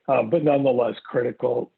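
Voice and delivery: losing his voice, a bit hoarse; hoarse and strained from a tired voice. Real, not acted. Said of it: "losing my voice".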